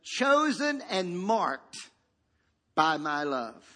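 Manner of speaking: slow, drawn-out reading; lightly proclaimed, with a pause midway; a touch of solemn fatherly declaration. Acted. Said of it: "a voice said".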